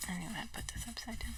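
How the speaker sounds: quick whispered aside to herself. Real, not acted. Whispering to herself while laying out the cards. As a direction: murmur it under the breath, fast.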